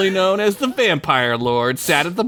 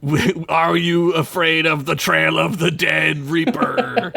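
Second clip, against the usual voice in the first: half-sung emo parody; mock emo band. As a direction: moan it like an emo frontman. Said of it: "emo banding it and being like".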